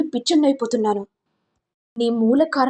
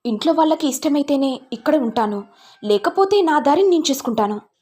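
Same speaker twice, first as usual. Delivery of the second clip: heated reproach, mildly raised voice; reproachful; 3 semitones higher, 3 dB louder than usual. Acted. Son blaming his mother for his unhappiness, mildly heated reproach. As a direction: blame her, then lay down the decision.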